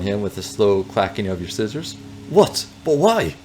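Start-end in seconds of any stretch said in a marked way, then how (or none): 2.3-3.3 high, puzzled fake Russian accent; bad Russian accent. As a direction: ask it in a hammy Russian accent. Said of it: "that is a very bad Russian accent".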